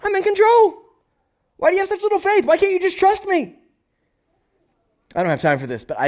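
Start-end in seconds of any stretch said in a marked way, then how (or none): 0.0-3.6 calm Jesus. Retold or imitated. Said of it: "And Jesus is like".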